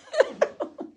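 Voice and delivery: high-pitched burst of laughter; laughing at the cat-and-dog joke. Real, not acted. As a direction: crack up at the punchline.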